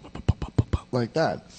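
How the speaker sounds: soft unvoiced pops; popping sound demo. Shown as a demonstration. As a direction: pop it out lightly, like a bubble. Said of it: "it's going pop".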